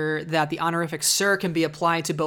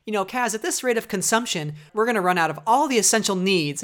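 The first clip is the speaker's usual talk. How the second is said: Niku; 4 semitones higher, 4 dB louder than usual. Retold or imitated. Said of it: "And Niku says".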